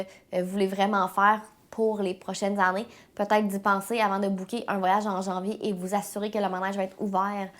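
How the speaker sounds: stuffy, congested head-cold voice; blocked nose. Real, not acted. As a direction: talk through a blocked nose. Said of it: "je parle beaucoup du nez aujourd'hui".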